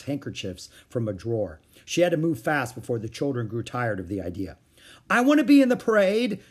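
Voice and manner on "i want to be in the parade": put-on very high, loud childish chant; screamed. A narrator's reading. Children screaming to join the parade. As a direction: shriek it as a crowd. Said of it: "screamed the children".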